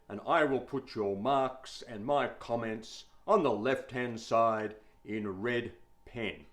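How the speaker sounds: a hint of a stern schoolmaster; lightly voiced teacher giving measured instructions; new male teacher. Teacher addressing his new class on margins, lightly voiced schoolmaster.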